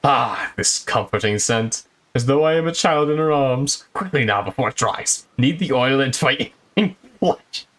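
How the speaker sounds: mock sensual voice. Streamer voicing the inspector at the massage, mock sensual. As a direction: purr the lines like a pampered nobleman. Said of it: "It's my sensual voice".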